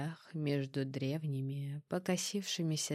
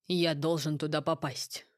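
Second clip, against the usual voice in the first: firm; 4 dB louder than usual. Acted. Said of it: "Голос Элиана прозвучал твёрже".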